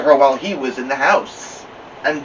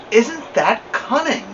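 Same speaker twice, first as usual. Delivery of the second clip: charmed lady; 10 semitones higher, slower than usual. A narrator's reading. Friend charmed by Ramona.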